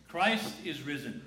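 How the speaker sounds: a slow, ringing Easter proclamation; proclaimed greeting. Shown as a demonstration. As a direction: announce it like good news. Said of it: "I got something better".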